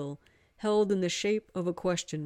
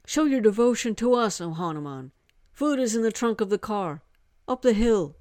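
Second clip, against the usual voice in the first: a hint of a commanding young man, a bit louder; lightly voiced order; 4 semitones higher, 5 dB louder than usual. Hari ordering the god to bring food, lightly firm.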